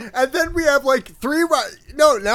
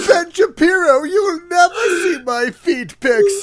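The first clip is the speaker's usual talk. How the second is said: mock Alexandria Ocasio-Cortez; 8 semitones higher than usual. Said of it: "I'm Alexandria Ocasio-Cortez".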